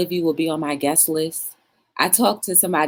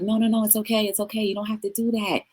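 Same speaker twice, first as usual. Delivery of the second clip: pretend reassuring spirit; 7 semitones higher than usual. Imagined self looking down on grieving mourners, playful pleading. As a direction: plead from above, playfully high-pitched. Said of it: "I look down and be like".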